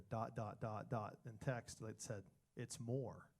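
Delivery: low, soft, slow reveal; deadpan suspense. Retold or imitated. Husband telling audience about wife's text reply, deadpan suspense. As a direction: draw out the dread, low and quiet.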